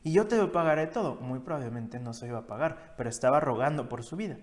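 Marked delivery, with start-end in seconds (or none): 0.0-1.2 pleading servant. Acted. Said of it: "le suplicaba diciendo".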